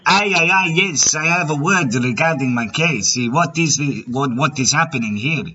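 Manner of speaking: put-on a loose, wandering Mexican accent. Prank caller fooling a scammer in a put-on Mexican accent. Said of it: "My Mexican accent is all over the place".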